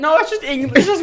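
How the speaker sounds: put-on high laughing pirate accent; a hammed-up pirate twang. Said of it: "John, that's pirate".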